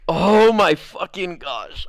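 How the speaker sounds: slow, drawn-out exasperated cry; retold exasperation. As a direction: stretch every word in disbelief.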